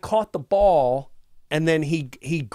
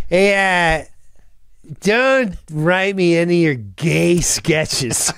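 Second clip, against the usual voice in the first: slightly louder, slow mock warning; imitated castmate; 3 dB louder, slower than usual. Veteran addressing the new cast, imitated gruff warning. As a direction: lay down the law as the retold castmate. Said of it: "he goes".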